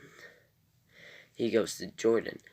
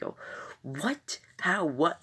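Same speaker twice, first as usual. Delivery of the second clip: high, baffled what-the-heck gasp; stunned disbelief; 9 semitones higher, slower than usual. Retold or imitated. Viewer reacting to Jordan being taken, high baffled disbelief. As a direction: act out the shock of the audience.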